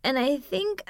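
whiny voice. Acted. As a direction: whine it out, loud then drawn out. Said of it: "yelled down the hall in a really whiny voice".

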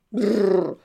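brrr forte di brivido; un brivido recitato con le labbra. A narrator's reading. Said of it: "mi vengono i brividi". (al cane, brrr di brivido)

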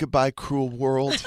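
slow, laughing mock farewell; hammed-up drama. Feverish patient saying a mock farewell to the world. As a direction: play the dying hero, half laughing. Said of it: "I was so dramatic".

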